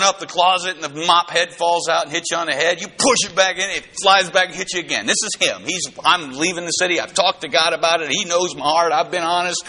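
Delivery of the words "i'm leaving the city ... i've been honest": huffy Jonah. Retold or imitated. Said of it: "He's angry".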